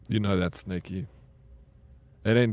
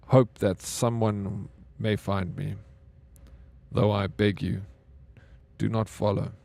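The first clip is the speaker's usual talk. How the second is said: reading the lost crew's log aloud to viewers, solemnly; dramatic log reading; 3 semitones lower than usual. Acted. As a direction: read it like a final farewell recording. Reads a game's audio log.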